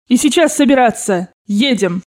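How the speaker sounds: emphatic command; shouted orders. Acted. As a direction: order everyone to get moving. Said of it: "закричала бабушка".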